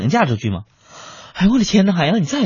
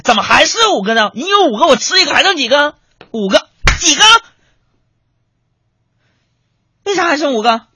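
mock scolding father; 11 semitones higher, 3 dB louder than usual. Father scolding son in joke.

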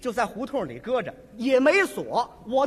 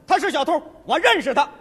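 calling out; 2 semitones higher, 6 dB louder than usual. Retold or imitated. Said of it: "冲我弟弟也喊上了".

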